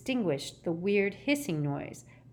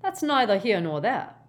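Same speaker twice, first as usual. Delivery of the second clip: higher, louder, cold rebuff; 4 semitones higher, 6 dB louder than usual. Acted. Ogden refusing Gaunt's question, coldly. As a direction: dismiss it coldly and firmly. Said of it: "said Ogden coldly".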